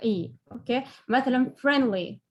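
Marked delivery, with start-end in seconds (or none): 1.6-2.2 friendly, first syllable stressed. Shown as a demonstration. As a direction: lean on friend, drop the ly. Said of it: "التشديد بيكون على".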